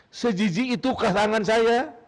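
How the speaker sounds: pleading, tearful cry to God; a sufi weeping over his dirty wudu water, crying out to God; tearful lament. A narrator's reading. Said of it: "dia menangis".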